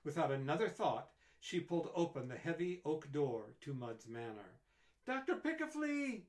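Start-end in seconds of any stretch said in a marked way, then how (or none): 5.1-6.2 loud high call of a name; shout. A narrator's reading. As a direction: call out across the door, loud. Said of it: "she shouted".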